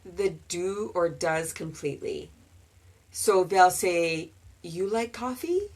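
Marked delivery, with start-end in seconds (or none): 4.6-5.7 mock learner asking without do; learner's mistake. Shown as a demonstration. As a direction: play the student who drops the helper verb. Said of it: "Which doesn't really work".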